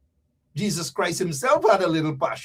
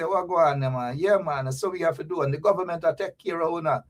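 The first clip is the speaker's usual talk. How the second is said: easy, lower Jamaican patois; Jamaican accent; 5 semitones lower, 4 dB quieter than usual. Acted. Jamaican PM talking to the people, Jamaican accent. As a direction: talk like a Jamaican leader. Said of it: "Even the Jamaican P M".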